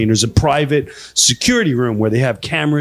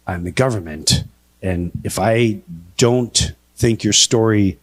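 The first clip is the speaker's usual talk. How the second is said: stern fed; 5 semitones lower than usual. Retold or imitated. Stern federal agent threatens him.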